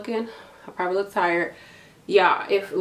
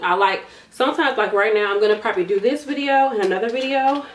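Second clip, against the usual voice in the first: out of breath; 3 semitones higher than usual. Real, not acted. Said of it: "Sorry, I'm a little out of breath".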